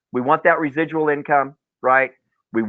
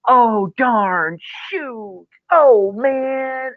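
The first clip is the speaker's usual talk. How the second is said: sheepish client; 8 semitones higher, much slower than usual. Retold or imitated. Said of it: "They'd go".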